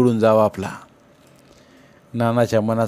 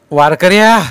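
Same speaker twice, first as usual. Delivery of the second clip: very loud, high bellow; sky-splitting roar; 8 semitones higher, 11 dB louder than usual. Acted. Nana bellows at Tukaba before striking him. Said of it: "आभाळाला तळा जावा तसा ओरडला".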